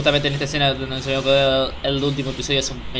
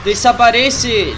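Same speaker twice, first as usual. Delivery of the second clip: grito imitado; 6 semitones higher, 4 dB louder, much slower than usual. Retold or imitated. Repite grito del episodio.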